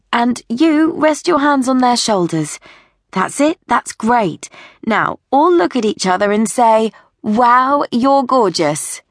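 high, encouraging voice directing a photo shoot; jolly the children along with lifted pitch; bright-spirited photographer posing a group; Sophie the upbeat photographer. Acted.

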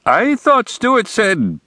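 a hint of an uneasy father; hesitant Gorfinkel. A narrator's reading. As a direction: start then falter.

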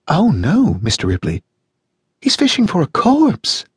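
amused Janice. A narrator's reading. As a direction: savour the word corpse, high and slow. Janice voiced in read story.

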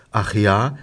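put-on mildly drunken slur; slurred, tipsy. Narrator answers the undertaker over Kölsch, slurred. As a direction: slur it like a few beers in. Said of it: "lalle ich".

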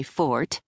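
"forte" as a single syllable, like fort; "forte" without the second syllable; one-syllable forte. A narrator's reading. Lawyer hedging before a possible Brit, "forte" as one syllable. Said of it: "dropping the second syllable".

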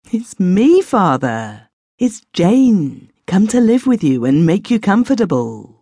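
a hint of a hopeful young woman coming home; Jane's voice.

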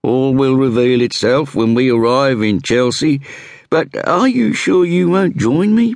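lightly voiced inspector introducing himself; inspector's voice. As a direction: play the self-assured Scotland Yard inspector. Inspector offers a cigarette.

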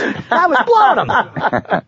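high, slow, laughing punchline; laughing joke. Real, not acted. Joking to cohosts about freezing up, laughing high and slow.

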